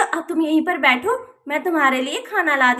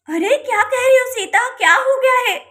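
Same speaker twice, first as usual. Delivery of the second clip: alarmed; 5 semitones higher than usual. Acted. Radha alarmed about Sonam.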